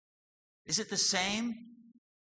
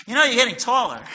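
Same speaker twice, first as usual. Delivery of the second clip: mock amazed parent; 8 semitones higher, 14 dB louder, faster than usual. Parent teasing growing child.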